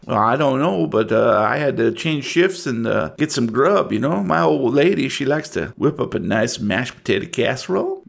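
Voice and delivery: lightly voiced self-assured deputy; a local deputy angling for promotion; a hint of small-town lawman; folksy deputy. Game master voices local deputy.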